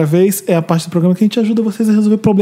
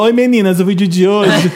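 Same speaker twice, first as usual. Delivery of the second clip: flopped vlogger imitation. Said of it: "a vlogueira flopada, que fala".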